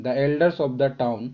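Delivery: slow, clear answer; slow dictation. Shown as a demonstration. (धीमे बोला गया उत्तर)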